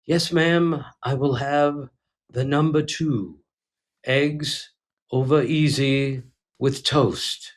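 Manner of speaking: a light, slow mock announcer voice ordering breakfast; Bob Shepard impression. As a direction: order eggs like a stadium announcer, lightly parodied. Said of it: "he does that impersonation".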